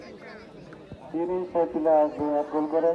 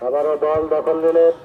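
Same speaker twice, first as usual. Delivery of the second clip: loud announcer; 7 dB louder than usual. Real, not acted.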